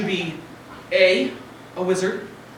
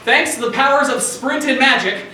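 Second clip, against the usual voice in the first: booming prize announcer. Acted. Game show host introduces guest.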